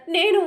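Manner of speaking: నేను said again, high and loud; stressed repeat. Acted. Wife insists she suffered, నేను high and loud. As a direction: hit నేను hard a second time.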